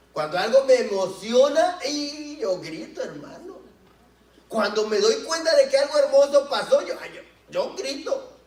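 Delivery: más agudo y fuerte, riendo; gritando emocionado. Real, not acted. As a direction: grita de alegría. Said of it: "se me sale un grito". (gritando de emoción entre risas)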